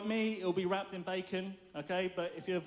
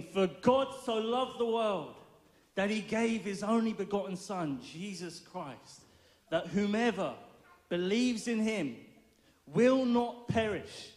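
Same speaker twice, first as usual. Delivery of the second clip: slow, emphatic verse, building in volume; Bible verse declamation. Acted. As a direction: proclaim the verse with long pauses between phrases.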